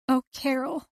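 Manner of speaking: lightly voiced grieving friend; Liz's voice. A narrator's reading. Liz voiced, emotional.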